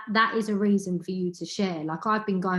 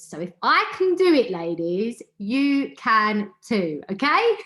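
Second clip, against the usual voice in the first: rallying cheer; 3 semitones higher, 5 dB louder than usual. Real, not acted. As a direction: fire them up, stretching "you can too" out slowly. Rallying the women listening.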